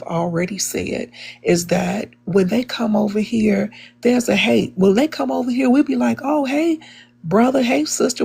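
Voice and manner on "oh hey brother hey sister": high-pitched, lightly acted hello; welcoming mock greeting, pitched up; friendly greeting. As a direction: greet them like family, voice lifted. Acts out greeting newcomers.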